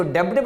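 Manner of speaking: डेब्ट with a sounded b; b and t both heard in डेब्ट; wrong pronunciation. Shown as a demonstration. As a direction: misread debt as डेब्ट, b audible. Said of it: "वो बिल्कुल गलत है".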